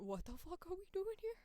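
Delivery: rising high, baffled outburst; voice of own brain. Acted. Speaker voices their puzzled brain, pitch climbing high. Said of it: "Brain went".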